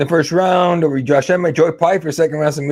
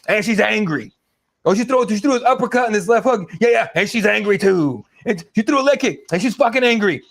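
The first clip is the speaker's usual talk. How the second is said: mock commentator, lightly higher-pitched; Joe Rogan; 4 semitones higher than usual. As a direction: parody a repetitive fight commentator. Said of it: "this motherfucker, every five seconds".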